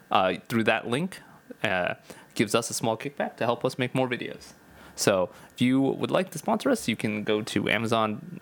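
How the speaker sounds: news reporter read; announcer-style sponsor plug. Acted. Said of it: "that was my reporter voice".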